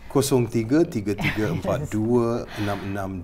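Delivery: smooth radio DJ voice; Patrick Theo radio voice. Pretend. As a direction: read the number like an on-air announcer. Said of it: "Can I, can I do my Patrick Theo radio voice for this?".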